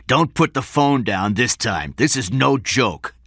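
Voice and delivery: slow, forceful warning; menacing. A narrator's reading. Kidnapper threatens on phone.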